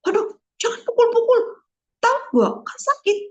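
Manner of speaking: high, loud sing-song scolding without anger; gentle correction to a child. Shown as a demonstration. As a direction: coax the child, not scold. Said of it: "Bukan kita marahin".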